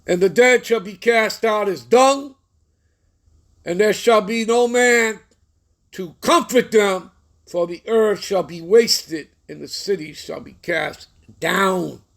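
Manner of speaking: slow, grave, declaiming; solemn scripture reading. Acted. Preacher intoning prophecy of doom to his listeners, slow and solemn. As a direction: let each doom phrase land slowly.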